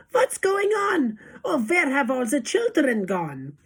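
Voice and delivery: mock the baffled teachers; mock wail. Witch mocks the teachers' cry, laughing. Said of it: "The teachers cry".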